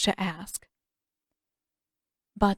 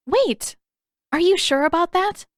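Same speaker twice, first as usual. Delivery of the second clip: higher, louder call after someone running off; 10 semitones higher, 5 dB louder than usual. A narrator's reading. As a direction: call out to stop her. Katara calls after running girl.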